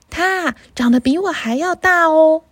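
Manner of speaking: 它长得比我还要大哦 said gently in a small goat voice; a little goat hinting at a bigger brother; small-voiced little goat. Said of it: "用比第一只山羊还要大一点的声音回答".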